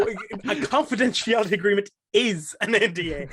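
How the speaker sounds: "is" leaned on as a firm correction; emphatic correction. Real, not acted. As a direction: hit "is" hard to settle the point. Correcting the quoted "something like.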